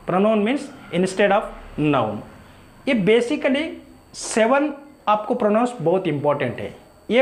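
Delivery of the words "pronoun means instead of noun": very slow, word by word; slow memory line. Shown as a demonstration. Teacher telling students to memorise, slow dictation. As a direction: lay it down slowly to be memorised. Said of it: "simply याद रख लीजिए".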